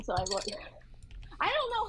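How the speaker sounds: vocal fry. Real, not acted. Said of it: "vocal fry".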